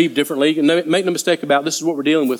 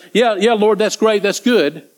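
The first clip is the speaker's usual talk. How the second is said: higher-pitched eager agreement, putting it on; feigned understanding; 4 semitones higher, slower than usual. Acted. Disciples nodding along to Jesus, feigned understanding. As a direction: play along as if you follow. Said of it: "trying to look intelligently".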